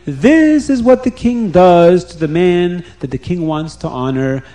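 loud public proclamation; calling out. Retold or imitated. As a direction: proclaim it to the whole street. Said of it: "he will call out to everybody".

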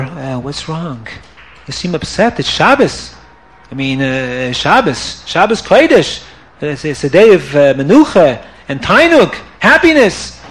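calm her down gently; gentle husband. Acted. Husband gently consoles wife.

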